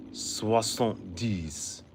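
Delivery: Soixante-dix said slow, swah-sahnt-deess; drawn-out Soixante-dix; Soixante-dix said slowly in French; French number. Shown as a demonstration. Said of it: "the French get a little different".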